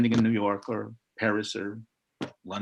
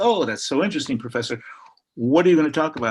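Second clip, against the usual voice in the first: lightly acted keen interest, higher and louder; politely curious, voiced a little higher; interested customs man; 3 semitones higher, 5 dB louder, faster than usual. Customs man chatting to a visiting professor, mock interested.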